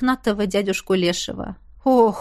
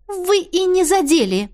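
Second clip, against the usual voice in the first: hasty reply; 8 semitones higher than usual. A narrator's reading. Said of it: "ответила поспешнее".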